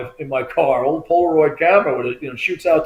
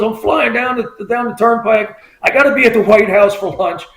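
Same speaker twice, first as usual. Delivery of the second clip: higher-pitched mimicry of a rushing caller; retold excited friend; 6 semitones higher than usual. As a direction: play a buddy bragging on the move. Friend calls while rushing to lunch.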